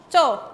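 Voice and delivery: tense "cho" with barely any air released; little air. Shown as a demonstration. Teacher modelling a Korean consonant, little air on "cho". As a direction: say "cho" tight, holding back the puff. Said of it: "No quitamos tanto aire al pronunciar".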